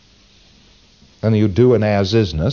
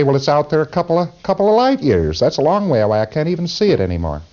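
acted-out reply; 6 semitones higher than usual. Acting out the person's reply.

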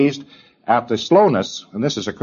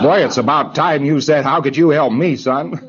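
teasing rebuke; 5 semitones higher than usual. Retold or imitated. Auditor scolding preclear.

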